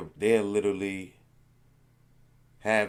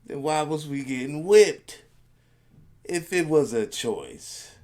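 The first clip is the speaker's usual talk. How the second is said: louder, higher, leaning into disbelief; indignant retort; 7 semitones higher, 7 dB louder than usual. Real, not acted. Answering Kanye's slavery claim, loud and indignant. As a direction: throw the question back, outraged.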